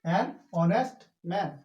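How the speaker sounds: ऑनेस्ट said slowly with no h, starting on the vowel; silent h. Shown as a demonstration. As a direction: model ऑनेस्ट without the h. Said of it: "इसको हॉनेस्ट नहीं बोलेंगे".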